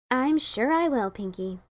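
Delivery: slow, bored and trailing off; humouring her without interest; droning. Acted. Twilight to Pinkie, a slow bored drone. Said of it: "Twilight droned".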